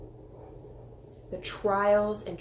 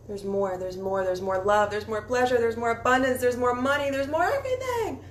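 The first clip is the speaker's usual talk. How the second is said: building excitement; 3 semitones higher, 5 dB louder than usual. Real, not acted. Building ecstatic list.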